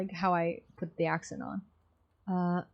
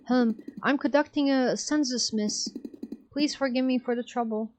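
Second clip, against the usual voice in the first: higher nervous official voice; meek fake census taker; 4 semitones higher than usual. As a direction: cover the chase with a polite lie. Guard meekly lying as census taker.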